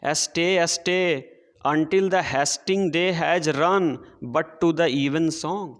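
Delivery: very slow, measured verse reading; poem recitation. Shown as a demonstration. Teacher reading poem to children, slow recitation. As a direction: read the line out word by word for the class.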